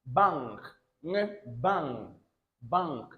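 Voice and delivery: "Bang" with a velar ng before the final k; "ng" hummed alone between the words. Shown as a demonstration. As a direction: model "bang" through the ng sound. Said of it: "I told you it is ng sound".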